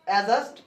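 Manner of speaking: অ্যাডজাস্ট as "a-just", d dropped; correct "adjust". Shown as a demonstration. Teacher repeating adjust for learners, pronounced "a-just". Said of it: "ওখানে উচ্চারণ হবে".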